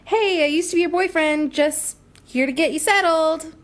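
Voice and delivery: mocking impression. Sarcastic mock of Caleb.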